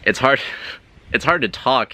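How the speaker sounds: high, tense throat-talker voice with a laugh. Shown as a demonstration. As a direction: push it up into the throat, laughing at the effort. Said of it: "while I'm talking like this".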